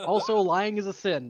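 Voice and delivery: laughing while scolding. Real, not acted. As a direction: chuckle through the words.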